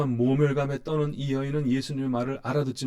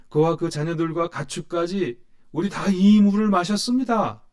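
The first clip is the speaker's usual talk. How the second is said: rising to a louder, prouder challenge on the ancestor claim; challenging retort; 4 semitones higher, 5 dB louder than usual. Acted. Preacher voicing the woman boasting of ancestor Jacob, louder and prouder. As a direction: press her pride in "우리 조상 야곱", growing louder. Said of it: "이내 속마음을 드러내고 말지요".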